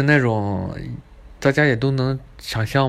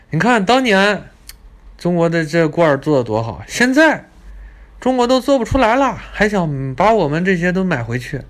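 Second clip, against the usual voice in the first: mock arrogant guide; 4 semitones higher than usual. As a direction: rub it in like a snob.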